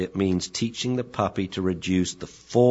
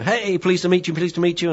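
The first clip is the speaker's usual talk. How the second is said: much higher, bouncy greeting as a dog; excited puppy voice; 11 semitones higher, 3 dB louder than usual. Retold or imitated. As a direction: voice a boisterous bull terrier saying hello.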